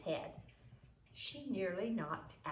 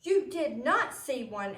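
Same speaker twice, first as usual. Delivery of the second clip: loud, sharp denial; indignant denial; 6 semitones higher, 9 dB louder than usual. A narrator's reading. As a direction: snap back at the accusation. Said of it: "Alice said".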